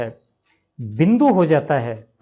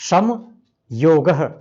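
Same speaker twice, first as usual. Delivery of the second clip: slow demo; much slower than usual. Shown as a demonstration. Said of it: "आगे है".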